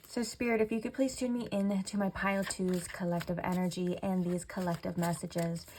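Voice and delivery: soft prayerful request, slowing at the end; quiet invocation to Spirit. Acted. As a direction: call on Spirit gently, like a prayer. Asks Spirit for guidance.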